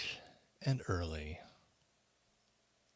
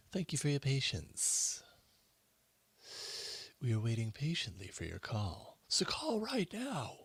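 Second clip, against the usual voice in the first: hold message whisper; 4 semitones higher than usual. Pretend. Mock hold-line message.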